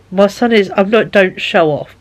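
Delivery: usual speaking voice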